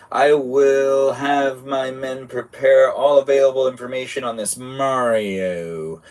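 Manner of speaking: slow, lightly acted stately command; a hint of a formal overlord; lightly voiced formal villain. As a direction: boss and witch planning the hunt. Reads boss and witch dialogue.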